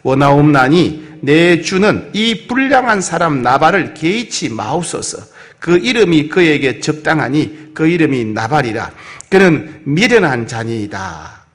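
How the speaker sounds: slow, measured Bible reading; scripture reading. Acted. Preacher reading the verse to the congregation, slow and solemn. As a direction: read the verse out slowly and solemnly.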